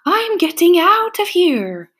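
high, panicky storybook getaway line; a touch of a scared fisherman; frightened cry. A narrator's reading. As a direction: blurt it out while fleeing. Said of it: "he cried".

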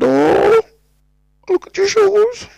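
very high, loud mock wail; over-the-top Cork squeal; hammed-up exclamation. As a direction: draw it out in a soaring, exaggerated cry. Acts out the Fiend's exclamation.

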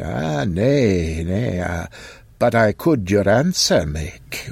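lightly voiced archaic old man; hesitant olden speech; old man Occam.

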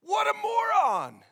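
high, loud, slow indignant shout; outraged listener. Retold or imitated. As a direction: shout it like a furious listener who can't believe it. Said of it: "You're like".

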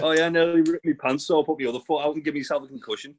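a hint of a wrestler making excuses, fast; mock excuse. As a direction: rattle it off like a lame excuse. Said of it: "You don't wanna say".

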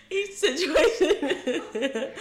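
put-on high, slow, laughing boyish squeak; teenage boy voice. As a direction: drag it out like a voice breaking. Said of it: "she sound like a little teenage boy".

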